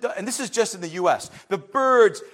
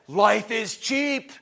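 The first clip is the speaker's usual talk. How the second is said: mock careless protester, louder, clipped shouts; preacher mimicking a defiant protester; dismissive protest voice; 3 semitones higher, 3 dB louder, slower than usual. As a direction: sneer like someone who cares for nothing. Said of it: "It said".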